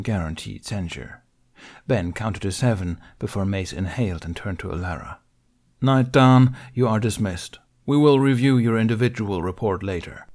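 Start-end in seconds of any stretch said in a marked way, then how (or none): 5.8-10.3 curt dismissal. Acted. Mace dismissing Alara.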